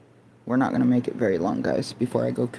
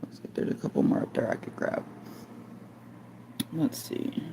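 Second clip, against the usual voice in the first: whispering; 3 semitones higher, 10 dB quieter than usual. Real, not acted. Muttering while working.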